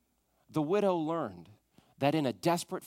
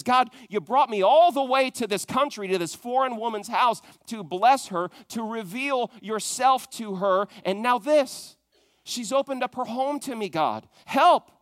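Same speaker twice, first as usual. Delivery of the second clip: raised, pleading cry to God; Elijah's pleading prayer; 5 semitones higher than usual. Retold or imitated. The prophet begs God over the dead child, rising plea. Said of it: "what Elijah prays in this chapter".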